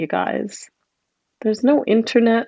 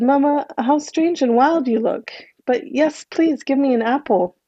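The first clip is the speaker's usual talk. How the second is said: put-on little boy; 5 semitones higher than usual. Little boy asks for apple.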